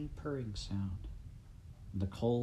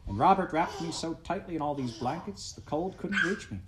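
laughing cheerfully; 5 semitones higher than usual. Acted. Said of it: "a pleasant voice answered".

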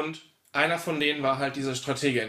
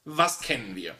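strategist voice; 5 semitones lower than usual. Retold or imitated. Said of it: "hat gesagt so".

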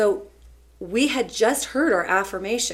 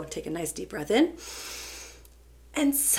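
demonstrated sigh. Retold or imitated. Teacher showing a panicked student how to breathe, exaggerated sighing. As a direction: let "sigh" turn into a comic exhale. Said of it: "I kinda made a really funny sound".

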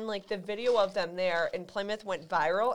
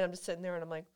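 talking through a yawn; words stretched by a real yawn; 2 semitones lower, 7 dB quieter, much faster than usual. Real, not acted. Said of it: "I'm yawning right now for the audio listeners".

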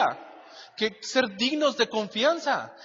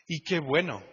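chuckling through Y qué bueno; amused repeat of Y qué bueno; with a laugh; 4 semitones lower, 3 dB quieter than usual. Real, not acted. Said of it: "repeat with a laugh".

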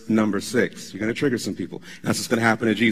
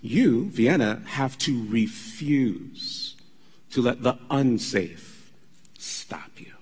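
slow, softer, ending in a whisper; quiet emphatic repeat; 4 dB quieter, much slower than usual. Real, not acted. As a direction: press it home gently to Vienna. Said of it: "I'm gonna say it again".

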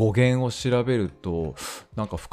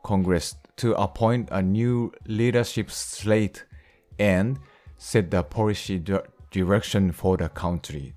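slow, measured English reading; English read-aloud; much slower than usual. Real, not acted. Teacher reading an English news sentence to learners, measured read-aloud. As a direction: read the news line out slowly, word by word.

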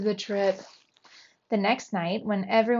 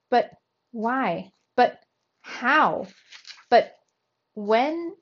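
rising, louder flustered questions; stammering; 3 semitones higher, 5 dB louder, slower than usual. A narrator's reading. Uncle shocked to find his nephew, stammering questions. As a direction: sputter it out, caught off guard. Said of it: "I stammered".

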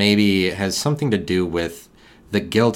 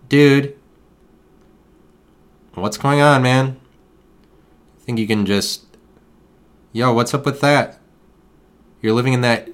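higher, louder bro-style lecture, a hammed-up life coach; mock pep talk to a raccoon; 5 semitones higher, 3 dB louder than usual. Lecturing a raccoon in a storm drain.

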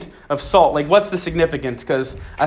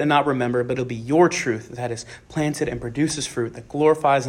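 prayer; 2 semitones lower than usual. Acted. Leads prayer before the talk.

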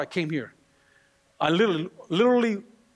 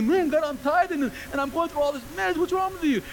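higher-pitched mock grumbling at God; complaining believer; 6 semitones higher than usual. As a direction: whine to God about the unfair mess.

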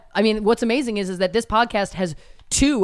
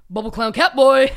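quick, blurted quote of a rambling man; rambling stranger's greeting; 3 semitones higher, 4 dB louder than usual. Retold or imitated. Man out of his mind greets driver, imitated in a quick blurt. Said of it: "These were the words he said to me".

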